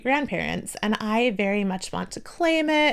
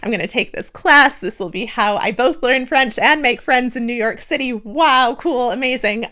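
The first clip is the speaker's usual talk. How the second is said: retold excitement; 5 dB louder than usual. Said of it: "I came out of it feeling really excited".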